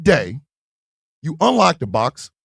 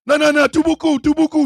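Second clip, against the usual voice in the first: high-pitched mimicry of women refusing; imitated panicked refusal; 8 semitones higher than usual. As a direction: chatter out a high mock refusal.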